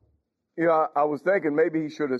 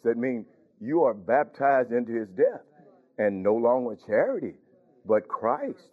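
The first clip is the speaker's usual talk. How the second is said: gentle persuasion; 4 semitones lower than usual. Retold or imitated. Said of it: "I would talk to her like that".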